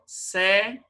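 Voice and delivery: "secretaria" split as se - cre - ta-RI-a; syllable by syllable. Shown as a demonstration. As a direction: say "secretaria" in separate pieces, stressing RI. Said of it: "Então, agora aqui".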